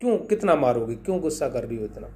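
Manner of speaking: gopis rushing to beg the mother; pleading protest. Acted. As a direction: village women begging Yashoda to let the boy go. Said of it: "और कही".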